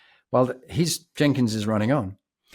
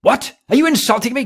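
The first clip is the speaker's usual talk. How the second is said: much higher, louder hammed-up outrage; mock outraged instructor; 12 semitones higher, 6 dB louder than usual. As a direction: fake indignation in a squeaky barking voice. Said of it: "He said".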